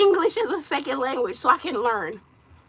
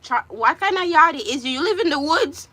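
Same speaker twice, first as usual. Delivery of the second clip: mock scolding; 2 semitones higher, 5 dB louder than usual. Mock scolding viewer's teeth.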